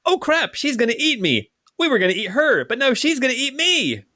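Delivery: high-pitched, whining goblin voice; panicked gobloid. Acted. Captured gobloid fearing the warrior will eat him, panicked. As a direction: wail it high like a doomed little goblin.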